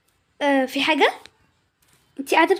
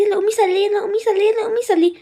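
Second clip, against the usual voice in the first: higher-pitched, repetitive mock nagging; mimicked nagging; 5 semitones higher than usual. Girl mimics family telling her to pray, mock nagging. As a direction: imitate family pestering you, over and over. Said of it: "ويبدأوا يقولوا لي".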